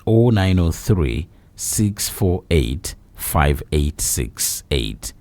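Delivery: reading out a phone number slowly, digit by digit. Acted. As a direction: spell the line out slowly for listeners. Reads out the station number.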